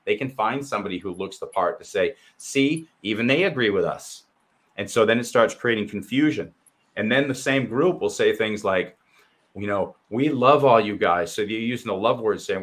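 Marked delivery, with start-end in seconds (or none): 2.4-4.2 smug mocking voice, pitched up on see; sarcastic impression of a pundit; mock spokesperson. 10.1-11.3 slow, louder sugary mockery; sarcastic sweet voice; mock sweetness. Mocking group's claim.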